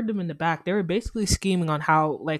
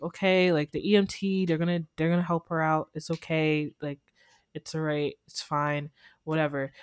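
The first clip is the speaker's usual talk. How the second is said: calming down; 4 semitones lower than usual. Retold or imitated. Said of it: "I was calming her down".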